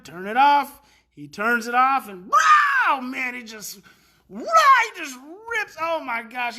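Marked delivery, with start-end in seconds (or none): 0.0-0.8 firm command. Retold or imitated. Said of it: "I said to him".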